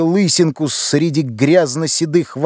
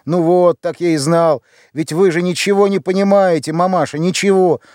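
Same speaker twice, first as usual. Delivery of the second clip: angry; 4 semitones higher than usual. Acted. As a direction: snap at his mother, exasperated. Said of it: "сердито заговорил". (сердито, с раздражением, выше и громче)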